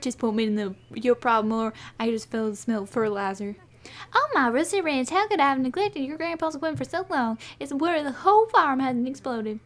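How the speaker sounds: lightly voiced country folk, punchy; hearty farm townsfolk. Townsfolk arriving to help on the farm, hearty character voice. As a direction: announce yourself like a friendly farm-town helper.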